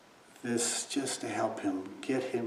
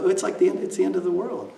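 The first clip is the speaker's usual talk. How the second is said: retold alarm; 8 semitones higher, 6 dB louder, faster than usual. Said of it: "And I said".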